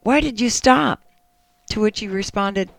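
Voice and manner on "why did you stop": higher-pitched, lightly acted loving wife. Wife asking husband why he stopped, lightly acted loving voice. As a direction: gently play a wife's affectionate question. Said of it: "she asked in a loving voice".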